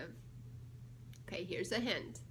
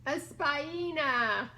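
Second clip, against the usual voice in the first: slow reveal; 2 semitones higher, 5 dB louder, much slower than usual. Acted. Punchline reveal read aloud.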